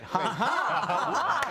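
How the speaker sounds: put-on a light pirate ha ha with his own accent; pirate laugh. Chef retells his answer to the friend, lightly as a pirate. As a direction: toss off a hammed-up pirate laugh. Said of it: "my accent with a pirate expression".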